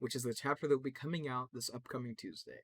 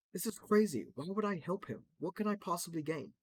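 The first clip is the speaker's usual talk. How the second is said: higher, louder disbelief; exasperated protest; 6 semitones higher, 3 dB louder than usual. Acted. Crypto denying he helped Revenant, high and outraged. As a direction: protest your innocence, incredulous. Accused character protests innocence.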